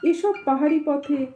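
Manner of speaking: measured storytelling with pauses between phrases; unhurried audiobook-style reading; story narration. A narrator's reading. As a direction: read the tale aloud, phrase by phrase. Reads the story aloud.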